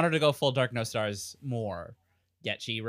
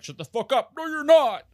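high, loud mock-jealous protest; shrieked comeback, hammed up; jealous outburst; 11 semitones higher, 5 dB louder than usual. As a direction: imitate a jealous girl, rising to a high yell. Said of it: "Ethel gets so jealous".

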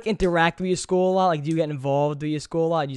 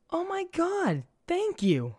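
put-on girl's excited thanks; 12 semitones higher, 4 dB quieter, slower than usual. Girl thanking him for rose.

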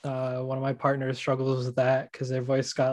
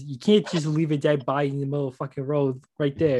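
character voice. Retold or imitated. Player quoting his go-to line to get into character, light character voice. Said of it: "the key phrase is".

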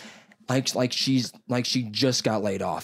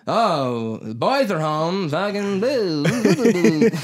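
higher, louder mock booing; mock-angry mother jeering from her room; pissed-off mom; 8 semitones higher, 6 dB louder, slower than usual. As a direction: ham up an annoyed mom booing the boys. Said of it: "pissed off in a room going".

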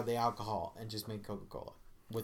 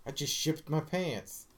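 slow mock confession; 4 semitones higher, slower than usual. Quoting an ad joke, first take.

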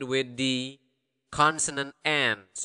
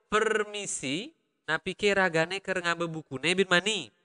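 higher-pitched Balinese lilt; Balinese accent; 4 semitones higher than usual. Shown as a demonstration. Teacher modelling a sample question for learners, Balinese accent. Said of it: "that is the accent".

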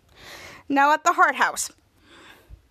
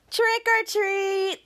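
slow trick-or-treater; 7 semitones higher, much slower than usual. Retold or imitated. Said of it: "and the boy says".

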